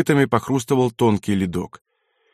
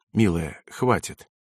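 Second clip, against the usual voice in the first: low, soft word to a loved one; soft, low and tender; gently restraining; 4 semitones lower, 5 dB quieter, slower than usual. A narrator's reading. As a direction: quietly tell her to stop. Colonel tries to calm her.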